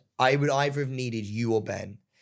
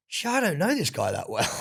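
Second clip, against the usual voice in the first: awkward panic; 6 semitones higher than usual. Retold or imitated. Retold awkward inner reaction.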